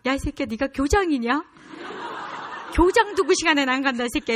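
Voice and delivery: loud, high mock scolding; indignant mom telling off her teenager; retold angry yelling. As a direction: act out a mother cursing out her late son. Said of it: "소리소리 지르면서 욕을 하면서".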